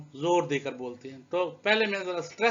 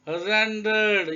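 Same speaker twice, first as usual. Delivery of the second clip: "rendered" loud and drawn out; stressed word; 3 semitones higher, 6 dB louder than usual. Shown as a demonstration. Teacher marking a stress word in a paragraph, emphatic "rendered". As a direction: press hard on "rendered" and stretch it. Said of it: "ये stress है".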